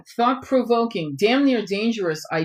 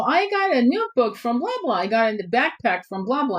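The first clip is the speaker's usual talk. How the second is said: mock commercial voice; 3 semitones higher than usual. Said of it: "it looks like a commercial".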